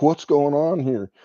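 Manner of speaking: mildly hammed-up bewilderment; retold alarm. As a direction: act out being caught off guard. Retold startled reaction to cop.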